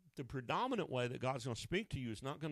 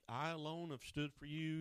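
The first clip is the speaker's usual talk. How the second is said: mock sob story; 4 semitones higher than usual. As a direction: imitate someone pleading their sob story. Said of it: "he begins to cry ... giving his sob story".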